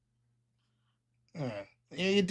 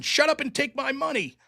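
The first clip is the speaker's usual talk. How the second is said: a light hint of Fry, pitched up; Fry impression; 5 semitones higher than usual. Chat asks for a Fry impression, lightly voiced, pitched up. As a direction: read it as a lightly done Fry. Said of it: "Futurama Fry impression".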